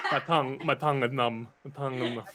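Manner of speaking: lightly voiced Gungun lisp; Jar Jar Binks impression. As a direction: do Jar Jar with a numb tongue. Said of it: "Jar Jar Binks".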